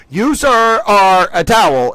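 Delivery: half-hearted cartoon yell; mock yell as Towelie. Towelie yelling at a government general, mildly hammed-up. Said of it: "he's yelling at one of the government".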